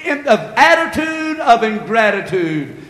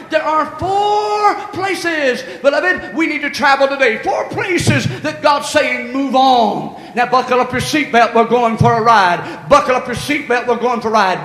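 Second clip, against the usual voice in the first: preaching. Acted. Pastor rallying the congregation, full preaching. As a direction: build the church up, preach it.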